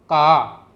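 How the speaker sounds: "का" loud, long and falling; Punjabi pronunciation. Shown as a demonstration. Teacher repeating the Punjabi word for learners, "का" loud with a falling tone. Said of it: "उसको पंजाबी में".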